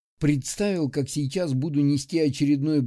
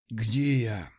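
weak, lower, rasped question; a wounded man's hoarse rasp; hoarse croak; 4 semitones lower than usual. Acted. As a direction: croak it out, barely alive. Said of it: "прохрипел лесник".

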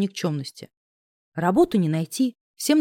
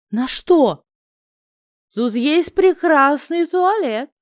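hot whisper; 6 semitones higher, 4 dB louder, much slower than usual. Acted. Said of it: "горячо шепнул мне".

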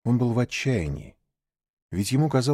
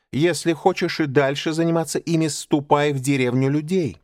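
raised, stern panther voice; stern scolding; 5 semitones higher than usual. Acted. Panther scolding Mowgli, stern and raised. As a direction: scold the boy firmly.

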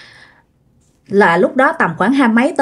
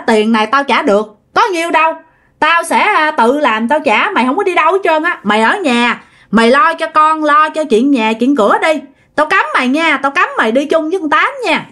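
arguing, slightly raised pitch; mild scolding; 5 semitones higher than usual. Acted. Husband forbids wife to go out with her friend, mildly scolding. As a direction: forbid firmly, with restrained anger. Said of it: "cự cãi xong".

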